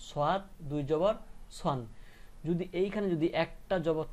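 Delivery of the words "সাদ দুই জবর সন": rising "জবর", pause, then "সন"; tanween with noon. Shown as a demonstration. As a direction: close "সন" on a clear n. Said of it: "নুনের সাথে মিলায়ে উচ্চারণটা হইলো".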